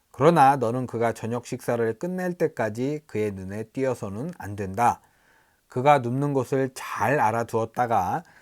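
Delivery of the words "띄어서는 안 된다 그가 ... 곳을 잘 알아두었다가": ordinary talk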